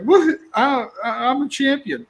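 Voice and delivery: a little self-congratulating whoop, played for fun; triumphant. Man replaying his tire change success, mock triumphant. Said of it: "you know, I was like".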